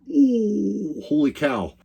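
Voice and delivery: high yelp of surprise, then a gasp of disbelief; shocked. Retold or imitated. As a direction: react as the tailgate gets smashed. Seeing trailer smash the tailgate.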